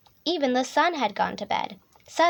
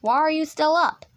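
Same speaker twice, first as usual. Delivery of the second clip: raised, mildly bellowed demand; bellowing hippo; 4 semitones higher, 4 dB louder than usual. A narrator's reading. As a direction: scold lightly as a hippo dad. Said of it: "bellowed Daddy Hippo".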